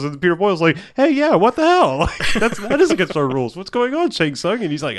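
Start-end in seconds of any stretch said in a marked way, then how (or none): 1.0-4.6 mock outrage. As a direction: play the shocked boss, pitched way up. Peter Boyle feigning outrage.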